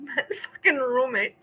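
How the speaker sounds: helpless high squealing laughter; laughing fit. Real, not acted. Streamer to chat about roommate, helpless laughing. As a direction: crack up completely.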